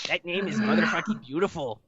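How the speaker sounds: put-on over-the-top Hispanic accent, shouted. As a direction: belt it in a hammy Hispanic accent. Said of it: "Put in a hundred and ten percent".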